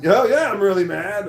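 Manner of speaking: loud, high mock yell of fury; retold angry yell. Angry manager answering a puzzled employee, mock yelling. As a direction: play an angry man yelling back. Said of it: "he started yelling at me".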